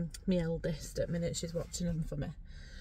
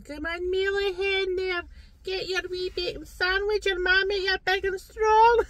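high, hammed-up Scottish accent, building louder; 11 semitones higher, 6 dB louder than usual. Talking Scottish to kids this morning, mock Scottish accent. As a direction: chivvy the kids in broad comic Scottish. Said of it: "I was talking Scottish to kids this morning".

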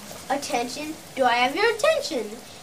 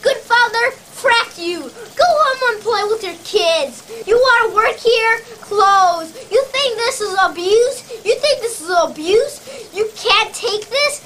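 higher-pitched, contemptuous tirade; angry berating; 3 semitones higher than usual. Acted. Sales boss putting down a salesman who challenged him, angry berating.

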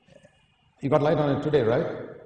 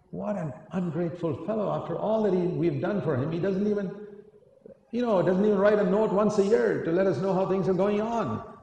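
higher, aggrieved griping; a hint of offended grumbling; indignant thought; 6 semitones higher than usual. Retold own indignant thought.

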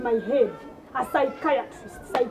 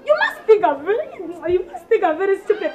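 laughing scorn; 3 semitones higher, 3 dB louder than usual. Acted. Scolding the maid, laughing.

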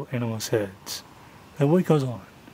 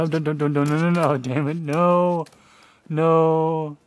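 urgent no; 4 semitones higher, 3 dB louder than usual. Real, not acted. Cat about to knock something.

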